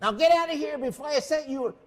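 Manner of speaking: put-on swaggering Falstaff-style braggart bellowing at the kids; Fausto waking up. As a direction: roar it out like a drunken thief king. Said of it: "Fausto says".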